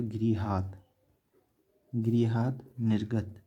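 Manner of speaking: slow dictation. Shown as a demonstration. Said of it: "teacher dictates slowly".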